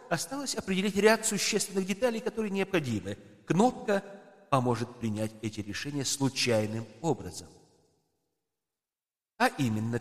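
lightly voiced ceremonious host; formal host voice. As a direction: speak like a courtly presenter. Host explains rules to emperors.

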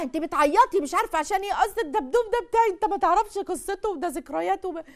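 a hint of a high, whiny wife defending her teddy; mock whiny wife. Husband mocking wife over her teddy bear, lightly whiny. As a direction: play the wife sobbing over silly memories, lightly.

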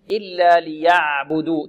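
ليعبدوا slowly, letting the ع flow halfway; medium ayn. Shown as a demonstration. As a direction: ease through the ع of ليعبدوا without cutting it. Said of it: "توسط العين".

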